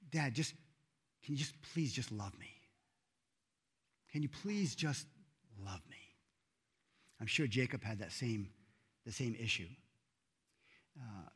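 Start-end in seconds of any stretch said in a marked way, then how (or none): 0.1-6.0 softly voiced, understated hurt pleading; pained plea. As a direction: plead quietly as a hurting son, voice dropping away at the end. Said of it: "you can hear the pain. He's crying out".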